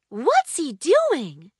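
slow, puzzled question; slow and curious, like a kid peeking at a friend; curious wondering. Acted. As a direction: puzzle over it slowly. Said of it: "wondered Ollie".

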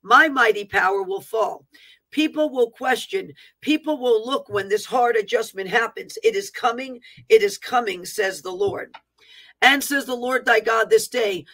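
emphatic declaiming, each phrase launched firmly; prophetic proclamation. Acted. Preacher voicing the Lord's warning to the nation, declaiming. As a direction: proclaim it as a solemn divine decree.

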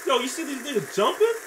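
loud frustrated yell at the raft. Real, not acted. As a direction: shout orders high and loud. Yelling at raft in game.

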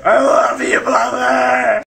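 anguished shout. Acted. Grief after killing butler.

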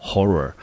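horror repeated short, falling; repeat model. Shown as a demonstration. Teacher repeats horror for students, clear. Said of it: "我们呢英文就念成horror".

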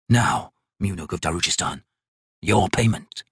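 lightly voiced ancient god, slow and measured; a crippled god. Crippled god judging the painter's work, slow and cold. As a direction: speak down to the mortal like a bored deity.

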